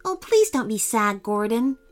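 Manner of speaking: gentle, consoling friend; kindly. Acted. Mermaid comforting her disappointed friend, kindly. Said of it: "said his mermaid friend kindly".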